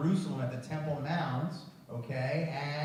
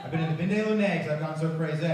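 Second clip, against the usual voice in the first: fake French; much faster than usual. Shown as a demonstration. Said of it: "You guys wanna try?".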